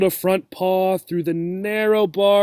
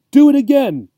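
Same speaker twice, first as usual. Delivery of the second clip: much higher and louder excited squeal; gleeful demand; 9 semitones higher, 9 dB louder than usual. Acted. The cat squealing for Obie to touch her paw again. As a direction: beg for another round with glee. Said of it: "cried Sugar Smacks gleefully".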